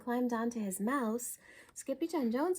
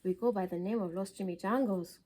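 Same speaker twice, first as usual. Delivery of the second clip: growl; 3 semitones lower than usual. Acted. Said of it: "growled Don Diego".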